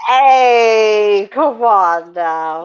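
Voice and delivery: loud whiny hey, then slow come on now; mock whiny protest. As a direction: whine like a wounded crybaby. Playful protest after being teased.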